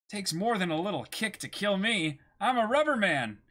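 hero voice. Acted. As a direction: brag boldly as the hero.

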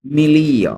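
"মিলিও" with the g silent, a drawn-out "li"; teacher's model "মিলিও", g left unsounded; silent-g pronunciation. Shown as a demonstration. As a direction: say "মিলিও" gliding from "li" to "o", no hard g. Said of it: "জি এর উচ্চারণটা উচ্চ থাকবে".

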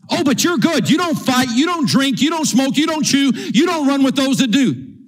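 high, rhythmic mocking list; mock praise. Preacher to comfortable churchgoers, mockingly praising their clean living. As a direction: punch out each item at high pitch.

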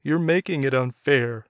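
a spit of defiance, understated; spat. A narrator's reading. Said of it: "Doug spat".

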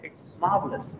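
"marvelous" as "MAAV-lus". Shown as a demonstration. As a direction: drop the R in "marvelous", long aa. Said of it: "हम जो बोलते आ रहे हैं मार्वलस वो गलत है". ("marvelous" को बिना R के "मावलस" बोलें)

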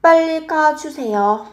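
teacher modelling Korean; model Korean phrase. Shown as a demonstration. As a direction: say it crisply for learners to repeat. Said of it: "Làm ơn đi nhanh lên ạ".

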